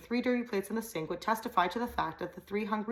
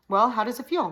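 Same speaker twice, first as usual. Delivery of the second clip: loud, higher Ozark twang; louder demand; 5 semitones higher, 8 dB louder than usual. A narrator's reading. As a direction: bark the question louder. Repeats question, demanding.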